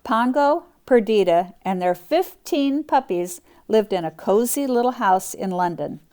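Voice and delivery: lively storybook reading; reading to children. Acted. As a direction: read it out brightly for kids. Reads picture book aloud.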